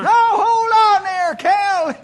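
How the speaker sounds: high, loud call to stop; loud urgent "hold on"; commanding shout. Acted. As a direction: shout him back. Stopping Cal from running off.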